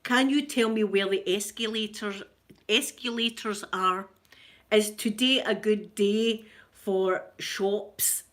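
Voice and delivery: slow, careful textbook English; English learner imitation. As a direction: lightly imitate schoolchildren practising English phrases. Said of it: "French school children that were learning English".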